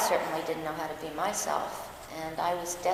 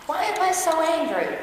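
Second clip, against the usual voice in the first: retold question; 10 semitones higher, 5 dB louder than usual. Retelling question to Zen master.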